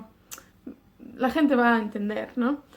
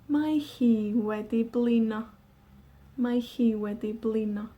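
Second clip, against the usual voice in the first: a touch of tired; 2 semitones lower than usual. Shown as a demonstration. Tired cat.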